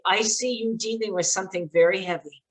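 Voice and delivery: calm gentle invitation. Shown as a demonstration. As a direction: open the door gently for a scared child. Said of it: "sit with them very calmly and say".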